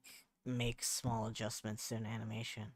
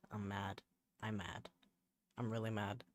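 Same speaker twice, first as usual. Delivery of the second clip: mock anger; 3 semitones lower, 4 dB quieter than usual. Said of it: "Can't you hear by the sound of my voice?".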